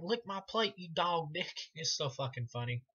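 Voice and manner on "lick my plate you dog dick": imitating Chop Top. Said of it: "He's like".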